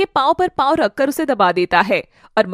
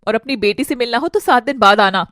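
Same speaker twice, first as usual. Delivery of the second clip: angry dismissal; 3 semitones lower than usual. Acted. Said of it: "घर से धक्के मारती है".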